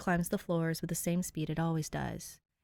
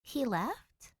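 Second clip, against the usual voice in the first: stunned echo; 6 semitones higher than usual. A narrator's reading. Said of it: "Danny echoes".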